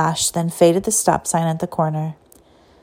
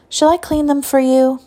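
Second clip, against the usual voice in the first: put-on old lady voice; 7 semitones higher than usual. A narrator's reading. Teacher offering help.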